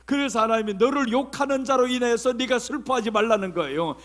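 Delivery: ordinary delivery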